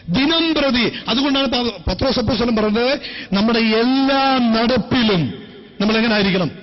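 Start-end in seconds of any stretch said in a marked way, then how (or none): 3.3-5.3 slow prompt. Real, not acted. Preacher prompting the congregation, slow drawn-out cue. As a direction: draw out എല്ലാ നടപ്പിലും slowly.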